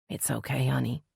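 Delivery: soft, soothing and tender. A narrator's reading. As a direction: comfort a crying girl softly. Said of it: "Nessa soothed".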